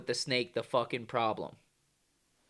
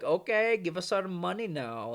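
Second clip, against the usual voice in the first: put-on higher-pitched, rough Indian accent; mock Indian accent; 4 semitones higher than usual. Cobra breeders demanding their money, mock Indian accent. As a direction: imitate an Indian seller in caricature. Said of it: "they bring the cobras over".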